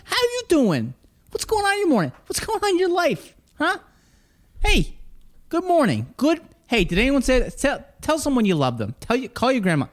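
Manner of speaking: put-on, very high-pitched host greeting; hyped-up show opener. Host greeting listeners at kick-off, hammed-up high voice. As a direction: open the show in a silly high voice.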